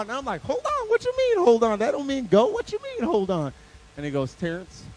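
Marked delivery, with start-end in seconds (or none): 0.4-3.5 squeaky, very high outraged questions; hammed-up high-pitched disbelief; incredulous protest. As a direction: protest like a thrown-off kid. Boy reacts to the halted start.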